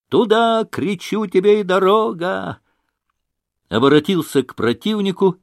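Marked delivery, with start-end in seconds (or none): 0.1-2.6 shouting. A narrator's reading. Officer throwing his pistol into the woods, high shout. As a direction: hurl the words after the pistol.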